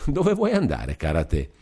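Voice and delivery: amused gentle teasing; teasing laugh. Acted. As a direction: tease her friend with a chuckle. Beatrice teases laughing.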